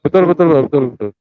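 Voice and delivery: distorted robot voice. Real, not acted. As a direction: voice changer robot sound. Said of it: "Bapak pakai suara robot lah".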